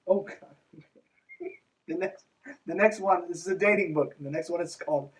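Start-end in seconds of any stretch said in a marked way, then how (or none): none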